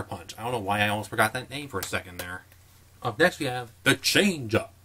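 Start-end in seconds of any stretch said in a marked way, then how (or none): 3.0-4.7 a lightly grand announcer read. Real, not acted. Introducing the next movie in a lightly grand announcer voice. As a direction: announce the title like a trailer voice. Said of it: "I said that in that grand of a voice".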